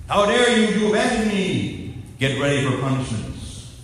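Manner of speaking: hammed-up false version of Jesus; mock stern Jesus. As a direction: pretend angry master scolding. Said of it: "he said".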